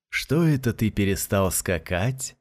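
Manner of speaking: slow, sugary question; sweetly teasing the boy. Acted. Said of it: "сладким голосом спросил продавец шаров".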